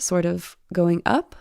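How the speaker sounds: "sort of going up" ending on a rising tune; upward inflection. Shown as a demonstration. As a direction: let "up" rise at the line end like a question. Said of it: "like I just did".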